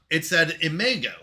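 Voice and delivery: i-MAY-go; Imago with ay. Shown as a demonstration. Streamer showing chat the looked-up Imago, i-MAY-go. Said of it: "When I looked it up".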